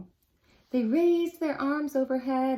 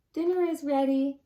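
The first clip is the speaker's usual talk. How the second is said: raised voice calling across the house; 4 semitones higher, 4 dB louder than usual. Acted. Grandfather calls On to dinner, raised voice. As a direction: call him from the kitchen.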